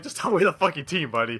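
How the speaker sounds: mildly fed-up demand, acting out the moment; annoyed. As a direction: get impatient as you re-enact it. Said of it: "at this point, I'm getting annoyed".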